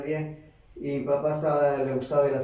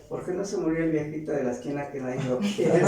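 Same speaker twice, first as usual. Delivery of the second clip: laughing. Retold or imitated. Grieving son recalls bitter thought.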